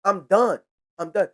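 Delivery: mock firm Trump. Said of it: "Trump was like".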